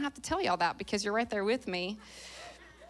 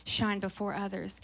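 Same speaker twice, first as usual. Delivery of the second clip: scripture reading; 5 dB quieter than usual. Real, not acted. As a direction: read it out deliberately, settling softer at the end. Last verse, sixteen.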